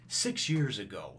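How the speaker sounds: slow, measured flashback caption; narrator. Acted. Narrator setting the flashback years back, slow announcer delivery. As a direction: stretch it out like a voice-over. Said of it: "narrator coming in and going".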